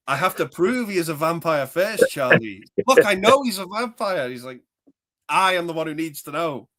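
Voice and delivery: hammy film dialogue; movie impersonation. Retold or imitated. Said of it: "doing impersonations".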